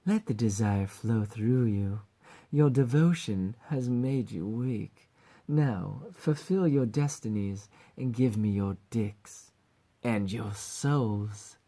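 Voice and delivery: put-on slow, menacing British-accented villain; Palpatine. Succubus demanding devotion and souls, slow villainous gloating. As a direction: draw it out like an evil emperor. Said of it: "Palpatine-like".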